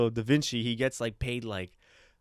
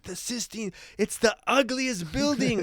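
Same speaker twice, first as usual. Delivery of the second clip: appalled complaint; 9 semitones higher than usual. Retold or imitated. Voicing Michelangelo appalled at the job.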